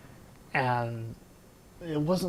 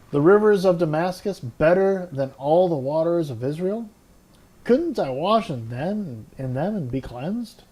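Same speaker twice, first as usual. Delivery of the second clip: indignant scorn; 3 semitones higher, 4 dB louder than usual. Acted. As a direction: sneer at Israel's rivers. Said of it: "went off in a rage".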